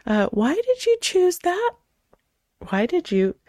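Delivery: high, slow, judgmental grilling; accusatory. Shown as a demonstration. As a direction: question them like you're blaming them. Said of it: "it sounds like".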